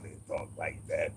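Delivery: lightly imitated New York accent. Shown as a demonstration. Showing how they talk in New York, light New York accent. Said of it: "You go to New York".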